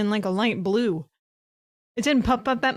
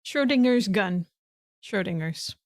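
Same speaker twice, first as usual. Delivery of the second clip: talking while crunching chips; words around a crunchy bite. Real, not acted. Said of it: "sorry for the crunch sound".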